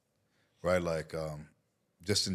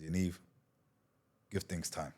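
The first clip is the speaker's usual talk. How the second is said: softer, hushed advice; quiet; 7 dB quieter than usual. Retold or imitated. Mentor calmly counsels him against divorce, quiet. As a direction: say it gently, almost under breath. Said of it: "And he just got quiet".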